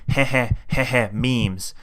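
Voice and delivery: lightly voiced goblin snicker; nasal goblin voice. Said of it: "goblin freak with a nasally voice saying".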